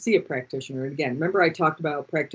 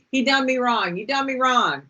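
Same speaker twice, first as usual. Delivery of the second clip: higher-pitched mock country heartbreak; country-song lament; 6 semitones higher than usual. Quoting her homemade breakup song, mock country lament. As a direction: lament it like a hammed-up country refrain. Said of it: "I played this song".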